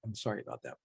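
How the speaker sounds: talking through a mouthful; mouth full. Real, not acted. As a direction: speak around a bite of food. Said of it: "you can't talk with your mouth full".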